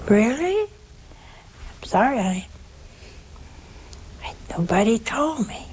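mock-surprised, rising "really?"; surprised reply. Little girl answering the nun who corrected her, surprised.

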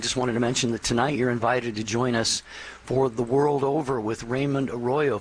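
normal talking voice

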